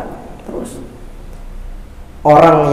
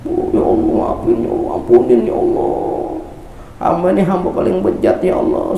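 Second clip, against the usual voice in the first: tearful prayer; 4 semitones higher than usual. Acted. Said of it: "Sampai nangis".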